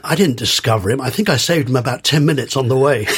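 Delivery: lightly imitated New York drawl; a hint of a drawling New Yorker, deadpan retelling. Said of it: "Shelton drawled in his New York drawl".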